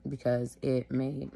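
short of breath, slow; wheezy and labored; wheezing. Real, not acted. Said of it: "sorry, I'm wheezing a little bit".

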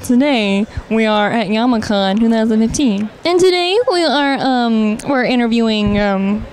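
lightly hammed TV reporter. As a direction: announce it like a TV host. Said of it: "this is my reporter voice".

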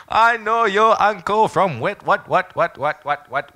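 very high, loud mock cry, easing down as it goes; hammed-up impression of a delighted relative, slow and drawn out; effusive ambassador auntie. Ambassador greeting her daughter's friend like family, hammed-up high exclamation. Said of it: "a call from the ambassador from Hong Kong".

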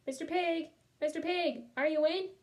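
light call to see who's home. Acted. Wolf at the brick house, calling out. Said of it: "I called".

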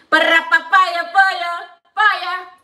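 slow stretched Para papaya, paya, paya with the stress on pa-PA-ya; drawn-out papaya. Shown as a demonstration. Teaching viewers the word papaya, slow and stretched. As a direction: say papaya slowly, syllable by syllable. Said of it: "Esta se llama papaya".

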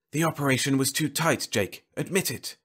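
a taunt pushed into his head; a hint of a telepathic intruder; lightly voiced mind voice. A narrator's reading.

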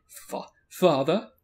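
slow stumble building to a drawn-out loud cry; hammed-up wail of the word; clowning. Reader stumbles, then clowns the word.

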